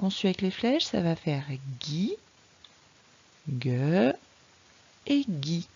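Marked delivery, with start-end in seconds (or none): 1.8-5.7 "Guy" and "Gue" with a hard g, as in guitare; hard G syllables. Shown as a demonstration. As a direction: sound out "Guy", "Gue", "Guy" one by one. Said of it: "tu as l'exemple de la guitare".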